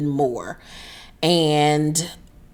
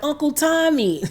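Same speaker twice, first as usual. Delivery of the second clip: hammed-up pitiful plea, pitched way up; mock plaintive cry; 9 semitones higher than usual. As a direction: imitate a wounded nephew calling out. Wounded man calls uncle, teasingly retold.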